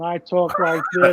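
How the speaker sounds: deadpan wrestler promo voice, slowed down; Damian Priest monotone. Retold or imitated. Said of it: "It's so monotone".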